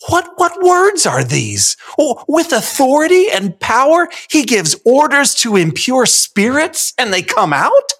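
high-pitched, wide-eyed astonishment; amazed crowd. Shown as a demonstration. Onlookers amazed at Jesus's power, astonished. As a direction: marvel aloud, climbing into disbelief.

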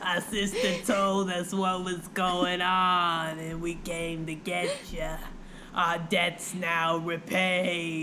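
mock eerie wraith. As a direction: intone it slowly like a ghostly water spirit. Voicing the water wraiths.

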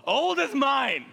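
acted incredulous scoff, rising to a loud finish; hammed-up scornful disbelief. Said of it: "She scoffed at herself and she said".

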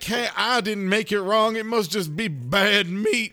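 hammed-up angry mother ranting at her sons; mock yelling. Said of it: "she starts yelling".

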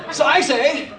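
hammed-up clipped English accent; mock clipped English delivery. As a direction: put on clipped English vowels. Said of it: "his best clipped English accent".

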